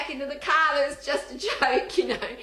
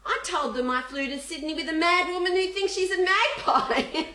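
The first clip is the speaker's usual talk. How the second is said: put-on little girl; 6 semitones higher than usual. Acting the girl's proud report.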